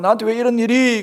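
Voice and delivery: hammed-up why-me wail; resentful complaint. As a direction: complain loudly in mock grievance. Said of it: "원망이 치밀어가지고".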